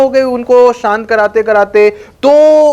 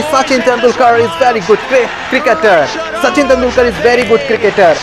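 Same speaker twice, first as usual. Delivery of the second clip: cricket commentator; 2 semitones higher than usual. Retold or imitated. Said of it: "तो commentary हो रही थी".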